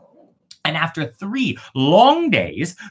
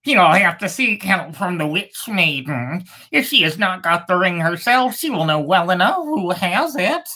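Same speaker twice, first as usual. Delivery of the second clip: lightly raised bird voice, knowing; other bird; 6 semitones higher than usual. Acted. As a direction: answer like a wise little bird. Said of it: "The other bird answered".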